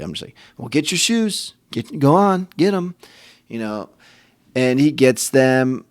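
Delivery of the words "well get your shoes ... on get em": higher, reluctant, impatient urging; grudging. Retold or imitated. Annoyed dad telling son to get his shoes, grudgingly. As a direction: hurry the kid along without joy. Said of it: "I don't even say that happily".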